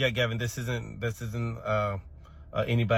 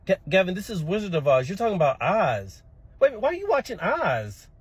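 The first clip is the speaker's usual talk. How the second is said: rising, louder alarmed questioning; alarmed realization; 7 semitones higher, 5 dB louder than usual. Real, not acted. Teacher alarmed that a small child watches Oz. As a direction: catch on with mounting alarm.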